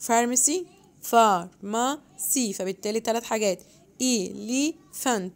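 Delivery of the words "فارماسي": فارماسي slowly, far-ma-si, each syllable apart; split into syllables. Shown as a demonstration. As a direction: tap out the three syllables of فارماسي. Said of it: "عندنا three syllables". (فارماسي ببطء مقطع مقطع)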